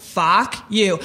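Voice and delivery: "fuck you" with a beat between the words; separated words. Shown as a demonstration. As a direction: split "fuck you" into two deliberate words. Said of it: "There's a thousand ways to say it".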